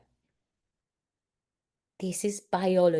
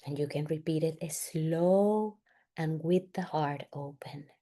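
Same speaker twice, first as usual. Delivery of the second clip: guided exercise; 2 semitones lower, 4 dB quieter than usual. Real, not acted. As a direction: lead them gently, phrase by phrase. Leads a guided family exercise.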